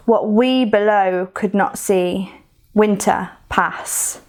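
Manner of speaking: slow, measured poetry recital; poem reading. Acted. Teacher reading Thaw aloud to the class, slow measured recital. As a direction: let each line of the poem settle before the next.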